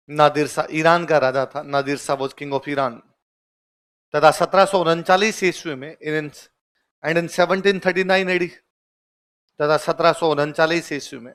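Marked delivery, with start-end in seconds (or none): 1.6-3.0 slow and soft, word by word; teacher dictating slowly to students; slow dictation. Shown as a demonstration. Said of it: "लिख लो". 7.1-8.5 very slow, each word apart; teacher dictating the date slowly; slow dictation. Shown as a demonstration. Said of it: "लिख लो".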